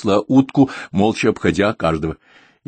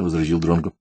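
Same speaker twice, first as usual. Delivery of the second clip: ordinary delivery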